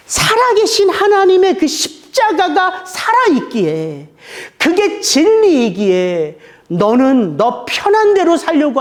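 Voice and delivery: measured preaching, pressing each phrase; slow earnest exhortation. Acted. Pastor urging the congregation to put on Christ, slow and earnest. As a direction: urge them slowly, from the pulpit.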